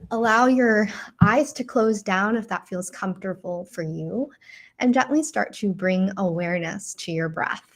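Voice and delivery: unhurried guiding voice with long pauses; guided meditation. Acted. Teacher guiding listeners into breath and a loving memory, guided meditation. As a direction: lead them gently through it, leaving room to breathe.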